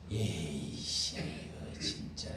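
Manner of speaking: low, slow, breathy muttered curse; disgusted mutter. Real, not acted. Preacher scorning a politician, low disgusted curse. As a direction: spit it out in disgust under your breath. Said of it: "disgusted aside".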